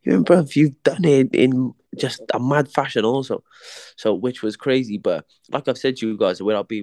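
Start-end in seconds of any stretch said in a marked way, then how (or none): 0.0-3.4 very high "Mad?" in a mate's voice; imitating his mate. Mate Spider echoing the boxer's word, very high and incredulous. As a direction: echo it sky-high like his friend. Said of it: "he went".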